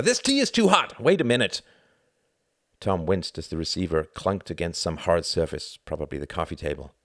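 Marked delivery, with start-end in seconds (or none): 0.0-1.6 high, loud complaint; crying out crossly. A narrator's reading. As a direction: exclaim as if scalded by hot tea. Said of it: "cried his father".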